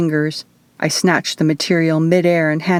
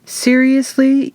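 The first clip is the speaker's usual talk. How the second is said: higher, slow, exasperated; exasperated groan; 8 semitones higher, slower than usual. A narrator's reading. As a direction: drag it out in disbelief. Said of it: "Eva groaned".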